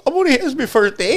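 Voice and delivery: high squeaky protest with a laugh; high laughing plea; pleading child voice. Retold or imitated. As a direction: squeak it like a scared kid. Pleading child self retold.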